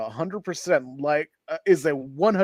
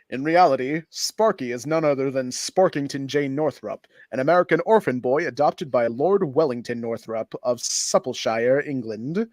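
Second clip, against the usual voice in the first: put-on old-timey narration. Shown as a demonstration. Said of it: "let me do the old-timey, uh, narration".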